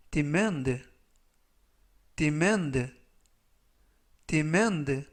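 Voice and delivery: "demand" said as di-MAND, stress on the second syllable; model pronunciation. Shown as a demonstration. Teacher repeating the word three times for learners, careful pronunciation. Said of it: "라고 발음하시면 되겠고요".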